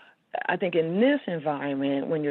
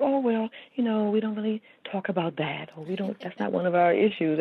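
higher-pitched mock brush-off; mild dismissive reluctance; 5 semitones higher than usual. Community members avoiding talk of Alzheimer's, mild dismissive reluctance. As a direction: imitate people politely dodging a subject. Voicing people avoiding the topic.

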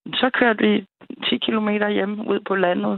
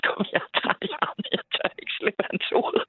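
laughing plea; 4 semitones higher, 4 dB quieter than usual. Retold or imitated.

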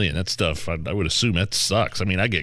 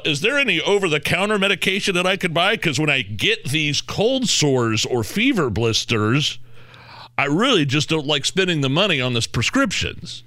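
fake casual customer; 6 semitones higher than usual. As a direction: play it innocent at the counter, higher. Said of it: "this whole charade of".

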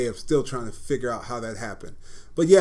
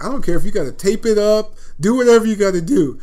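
loud, much higher mock coach shout; retold coach yell; 8 semitones higher, 9 dB louder than usual. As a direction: bark it like a coach who won't take no. Coach insisting he plays.

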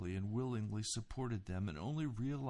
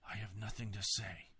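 croaking. A narrator's reading. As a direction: croak it out through held-back tears. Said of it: "he croaked".

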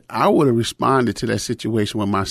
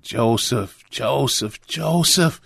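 building anger; 2 semitones higher, much slower than usual. Retold or imitated. Father confronts son covered in Vaseline, building angry calls. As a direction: let the name swell from stern to angry. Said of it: "and I got angry".

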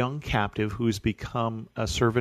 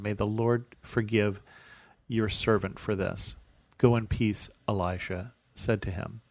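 scripture reading. Acted. Reads the scripture passage again.

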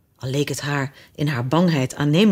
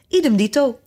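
higher, mildly loud exclamation; loud cry; 6 semitones higher than usual. A narrator's reading. Fiedeldop chimes in after his brother, calling loudly. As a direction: call it out, pitched up but not shouted. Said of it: "Hij riep dat zo hard".

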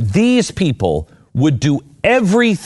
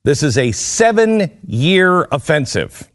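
slow, weighted delivery landing on "offensive"; stress on OFFENSIVE; 2 semitones higher than usual. Real, not acted. Host reading the story of a seven-year push, stress on "offensive". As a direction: lean deliberately on the word "offensive". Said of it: "Emphasis on the word offensive".

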